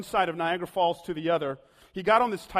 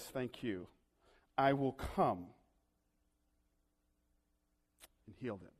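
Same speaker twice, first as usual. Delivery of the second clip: gentle Jesus; 9 semitones lower, 11 dB quieter than usual. Acted. Jesus answers centurion gently.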